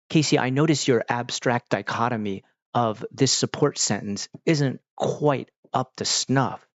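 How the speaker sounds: measured, mock-intellectual delivery; a hint of wordy TV drama; highfalutin teen talk. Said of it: "their highfalutin overuse of".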